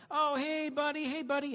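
high, chummy fake-friendly call; mock line-cutter. Line-cutter greeting a friend ahead in the queue, high chummy call. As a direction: chirp it like a cheeky line-cutter.

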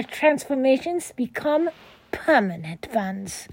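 lightly voiced bad Transylvanian vampire accent; mild Dracula-style Transylvanian accent. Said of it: "excuse me for the bad vampire voice".

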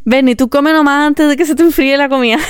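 a hint of a doting mom urging her to eat; imitating friend's mom. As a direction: coax like a caring mom, gently mocking. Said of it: "la mamá de Joaco siempre dice como".

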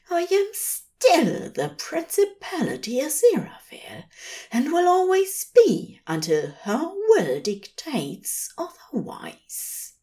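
high, strained, near-tearful anger; gritted out. A narrator's reading. Aziraphale insisting to the messenger he is still a Principality, gritted out. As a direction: force it out through gritted teeth. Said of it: "Aziraphale gritted out".

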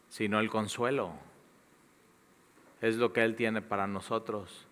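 earnest prayer voice, measured. Acted. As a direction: pray over the congregation, sincere. Pastor leads closing prayer.

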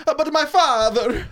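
high, slow, exaggerated Italian accent. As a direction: ham up a Mario-style Italian accent. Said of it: "a Mario Italian accent".

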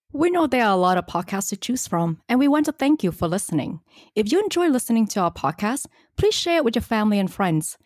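smooth scripted announcer read; podcast outro read. Acted.

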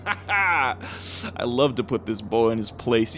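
slow gloating. Acted. Old human gloats.

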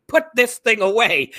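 loud, high shouted reprimand, imitated; retold angry order. Captain to officer holding a gun, retold shout. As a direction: act out a superior barking an order. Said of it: "he starts to shake it".

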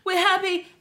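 loud laughing shout. Real, not acted. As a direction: burst out laughing happily.

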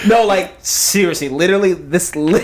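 laughing mock Valley girl; Valley girl accent. Friend retries the literally line, giggly Valley girl accent. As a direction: try the Valley girl accent while cracking up. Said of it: "this is like a basic white girl".

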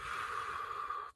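long unvoiced exhale through the mouth; deep breath out. Shown as a demonstration. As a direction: let the breath out slowly. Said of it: "Breathe out through your mouth".

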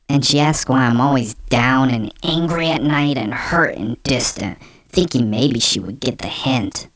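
lightly voiced depressed boyfriend; in character. Vlogger reading a man's breakup post, lightly in character. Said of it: "So I'm in character now".

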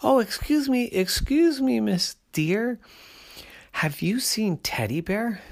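high, excited little bear cub voice; a bright eager cub asking around. A narrator's reading.

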